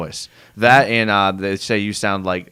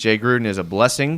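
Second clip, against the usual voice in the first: ordinary talk, nothing marked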